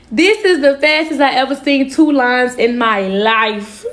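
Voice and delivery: half-laughing, half-crying at the result; laughing in disbelief. Real, not acted. Shocked by the two lines on the pregnancy test, laughing and near tears.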